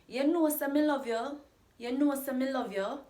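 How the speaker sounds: teacher showing the question-like tune of the phrase; rising question tune. Shown as a demonstration. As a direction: lift "know" high and let the line rise as if asking. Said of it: "It sounds like a question".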